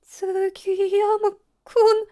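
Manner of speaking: очень медленно, высоко, с надрывом; выдавить имя сквозь слёзы; дрожащий хриплый зов. A narrator's reading. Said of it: "хриплым, дрожащим голосом". (дрожащий хриплый голос)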